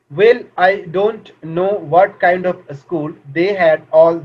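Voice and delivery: very slow, word-by-word reading; textbook reading aloud. Acted. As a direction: read it out slowly for a class to follow. Reads textbook passage aloud. (धीमे-धीमे पाठ पढ़ते हुए)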